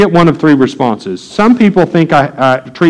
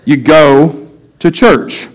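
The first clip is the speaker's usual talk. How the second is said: slow emphasis; much slower than usual. Shown as a demonstration. Punchline of list of errands.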